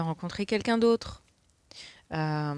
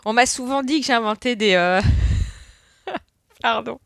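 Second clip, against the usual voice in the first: higher, laughter-filled speech; real helpless laughing; 4 semitones higher, 5 dB louder than usual. Real, not acted. Confessing to viewers her mangled expressions, laughing. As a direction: try to explain through the giggles. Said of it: "ça me fait trop rire".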